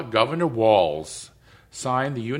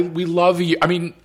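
real emotion, on the edge of tears; tearful, crying again; 2 semitones higher than usual. Real, not acted. Woman moved by kids grabbing a politician, tearful. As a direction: choke up while marvelling, then trail into an apology. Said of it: "I'm crying again".

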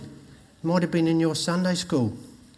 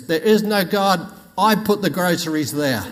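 louder, higher triumphant claim; gloating atheist; 3 semitones higher, 4 dB louder than usual. Retold or imitated. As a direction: crow over her.

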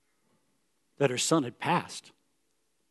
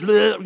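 mock blubbering; 4 semitones higher, 7 dB louder than usual. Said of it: "This is not just blubber words".

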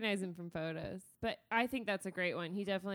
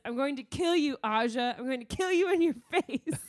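raised, louder playful menace; a touch of Severo's fury; mock threat; 3 semitones higher, 5 dB louder than usual. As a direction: threaten with relish, lightly hammed up. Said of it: "He says".

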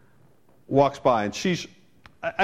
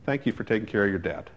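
gentle thanks; 5 semitones lower, 4 dB quieter, faster than usual. Retold or imitated. Stranger thanks him kindly.

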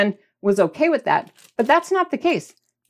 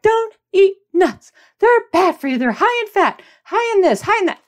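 imitating parents; 9 semitones higher than usual. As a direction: warn like a worried parent. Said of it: "my parents were like".

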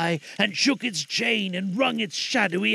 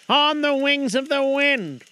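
high, loud, slow ghost voice; unearthly voice; 10 semitones higher, 5 dB louder than usual. Acted. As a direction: drag each word like a chain. Ghost speaks.

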